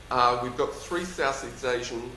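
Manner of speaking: slight lisp on the s sounds. Real, not acted. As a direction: lisp through three Southeast Asian. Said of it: "sorry for the lisp".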